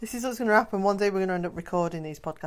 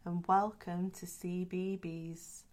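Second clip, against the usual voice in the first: put-on children's TV presenter; 5 dB quieter than usual. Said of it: "like a children's T V programme".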